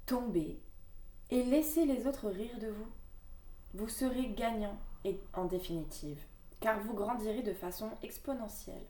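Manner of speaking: measured, earnest reading of the card text; card reading aloud. Acted. Reading her oracle card to viewers, earnest reading voice. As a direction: read the message to viewers like an oracle.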